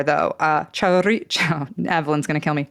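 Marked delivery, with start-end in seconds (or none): 0.7-1.7 chorizo slowly, rolling the r, ending in sho; careful Basque chorizo with sho at the end; Basque rolled R. Shown as a demonstration. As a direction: attempt a rolled r in cho-RREE-sho. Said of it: "You roll the R".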